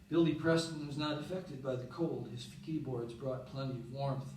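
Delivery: subdued recital with pauses between phrases; poem reading. Acted. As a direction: read it as a poem, quietly winding down. Reads a poem aloud.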